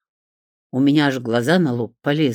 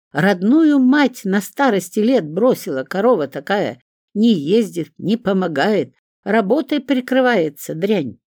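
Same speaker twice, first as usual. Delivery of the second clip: angry rant; 6 semitones higher, 4 dB louder than usual. A narrator's reading. Mother rants at daughter to neighbour.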